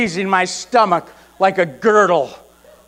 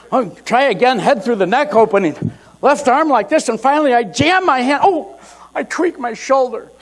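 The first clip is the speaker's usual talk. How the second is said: frantic struggle; 5 semitones higher than usual. Retold or imitated. Struggling with the shirt again.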